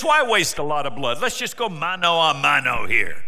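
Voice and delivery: loud, brash giant's dare; Goliath's challenge. Acted. Giant taunting the Israelites, loud and brash. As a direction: bellow the dare across the valley.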